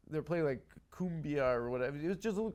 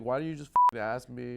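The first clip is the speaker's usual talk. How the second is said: retold exasperation; 2 semitones lower, 5 dB louder, faster than usual. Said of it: "And she's like".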